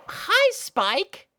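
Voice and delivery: put-on high, loud, nervous young girl voice; flustered little filly. Little sister confessing her crush to big sister, high and flustered.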